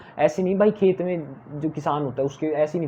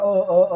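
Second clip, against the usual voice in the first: mock filler uh; 3 semitones higher, 5 dB louder than usual. Shown as a demonstration. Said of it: "ये देख कितना अ, अ कर रहा है".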